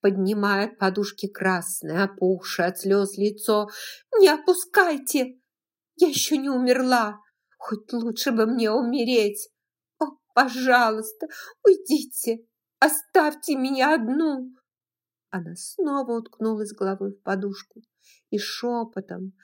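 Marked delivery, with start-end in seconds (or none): 4.2-14.5 louder, higher, fast; angry tearful shout. Acted. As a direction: drive them out. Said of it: "яростно вскричала".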